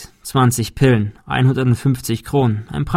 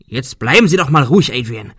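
scolding; 2 semitones higher, 4 dB louder than usual. Acted. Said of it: "schimpfte Arthur".

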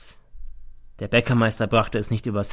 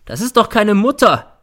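high, loud outburst of temper; furious shout; 11 semitones higher, 10 dB louder than usual. A narrator's reading. Son losing his temper in court, shouting. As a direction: explode with rage. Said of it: "schreit er".

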